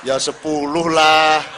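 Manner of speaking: slow, loud and laughing; laughing haggle. Retold or imitated. Fisherman bargaining with God, laughing loudly.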